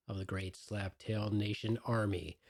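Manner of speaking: lightly hammed-up grand title roll call; pompous self-introduction. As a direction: announce yourself like a mock emperor. Grand self-introduction as Beeve Man.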